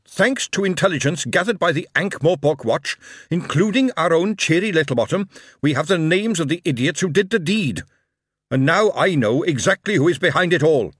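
starts even, rises to a loud, high shout; from measured news to angry address; calm turning angry. A narrator's reading. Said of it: "He raised his voice and shouted".

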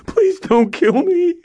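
very high, slow pleading; terrified plea. Acted. Stan begs the robber not to kill him, slow and high. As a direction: drag out the begging.

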